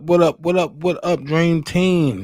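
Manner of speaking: loud, high call-out to the chat; big livestream hello; hyped greeting. Real, not acted. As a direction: hype up the viewers.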